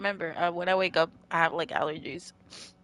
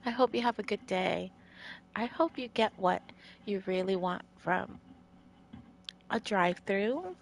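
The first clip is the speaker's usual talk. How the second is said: drive-through worker voice; 6 dB quieter than usual. Pretend. Streamer offers viewers a drive-through greeting, mock sweet. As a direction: put on a sweet cashier greeting. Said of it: "Do you want me to talk like this?".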